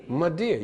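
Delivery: "Madeir" as two quick syllables, muh-DEER; elided mother dear. Shown as a demonstration. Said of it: "How you pronounce it?".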